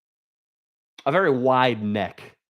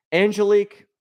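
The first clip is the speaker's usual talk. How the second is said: high sing-song call; 9 semitones higher, 5 dB louder than usual. Shown as a demonstration.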